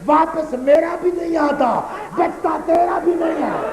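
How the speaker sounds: lamenting line rising into a cry on بھی; the father's sorrowful answer, ending in a mournful shout; wailed lament; grieving farewell. Acted. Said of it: "سر چوم کے حسین کہتا ہے".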